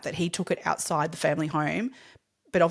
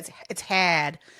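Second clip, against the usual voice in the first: put-on Boston accent. Showing the only thing they can say: boston accent. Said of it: "All I can do in a Boston accent is go".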